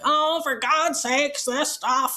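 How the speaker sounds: slow, scoffing, fed-up sigh of a line; mock exasperated boomer. Imitating dismissive boomer commenters, mild scoff. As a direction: roll your eyes at it, slowly. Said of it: "and they're like".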